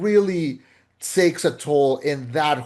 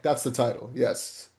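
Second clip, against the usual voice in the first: softer, self-satisfied murmur, the "Yes" whispered; smug mutter; 2 semitones lower, 5 dB quieter than usual. Retold or imitated. Teasing the co-host's review, softly smug. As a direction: murmur it to yourself, pleased. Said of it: "then you went, like".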